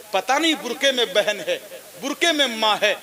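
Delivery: normal talking voice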